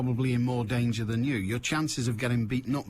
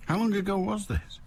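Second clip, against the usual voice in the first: higher-pitched, questioning interjection; probing question; 8 semitones higher than usual. Real, not acted. Host interrupting caller's story to date it, probing. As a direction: cut in with a higher-pitched query. Host's first asking, not caught.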